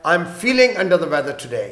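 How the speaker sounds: slow, clear teacher's read; slow example line; slow model sentence. Shown as a demonstration. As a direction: say it slowly for learners. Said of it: "آج طبیعت کچھ خراب ہے".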